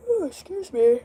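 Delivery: high sudden gasp then ooh; startled high ooh; surprised gasp. Real, not acted. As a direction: catch your breath in surprise.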